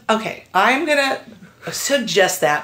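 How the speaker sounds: laughing through the words; amused. Retold or imitated. Agent humouring her client, laughing through it. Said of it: "she goes".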